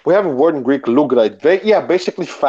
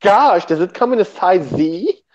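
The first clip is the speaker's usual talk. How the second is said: stereotyped camp voice; 4 semitones higher than usual. Shown as a demonstration. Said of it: "This is a faggot's voice".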